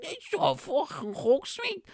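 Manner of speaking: high-pitched slurred mimicry, words stretched out; drunk guy impression. Stranger insisting to comedian it's a hoax, high drunk drawl.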